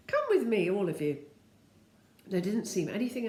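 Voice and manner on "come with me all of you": commanding Dame Slap. A narrator's reading. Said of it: "said Dame Slap".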